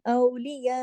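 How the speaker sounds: औलिया with या held very long; long stretched ending. Shown as a demonstration. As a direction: draw the या of औलिया out fully. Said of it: "या को क्यों खींचा". (औलिया, या पर बड़ी मद)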